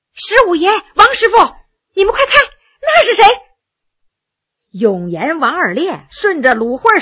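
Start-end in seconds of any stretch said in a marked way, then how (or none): 0.1-3.2 high, fast startled call, pitch climbing; startled cry. Acted. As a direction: cry out in sudden alarm and wonder. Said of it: "忽然惊叫一声". (惊叫，声音越来越高越来越快)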